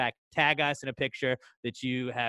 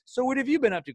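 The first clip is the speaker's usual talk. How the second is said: higher-pitched mock catching-up question; put-on small-talk voice, pitched up; awkward small talk; 10 semitones higher, faster than usual. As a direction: imitate stiff polite chitchat. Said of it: "There's not like".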